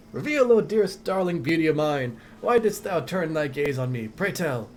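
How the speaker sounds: lightly voiced old-fashioned romantic, pleading; archaic lover. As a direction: recite it like a courtly lover from under the junk. Voices a figure in a game, archaic lover.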